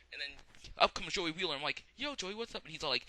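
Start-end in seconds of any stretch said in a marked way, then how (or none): 2.0-2.6 much higher casual hail; mock greeting. The speaker greets Joey, high mock voice.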